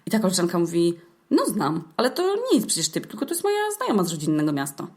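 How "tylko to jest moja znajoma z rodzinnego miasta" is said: ordinary talk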